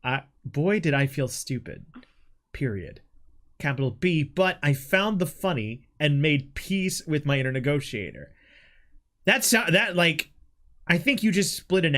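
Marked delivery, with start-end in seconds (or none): 0.0-8.3 measured story-reading voice; reading aloud. Acted. Friend reading own written story to co-host, read-aloud narration.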